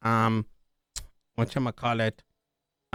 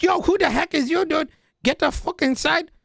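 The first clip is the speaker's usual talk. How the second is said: much higher, louder hammed-up thug; mock gangster yell; 13 semitones higher, 3 dB louder than usual. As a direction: bark it like a cartoon gangster. Armed gang voiced by speaker.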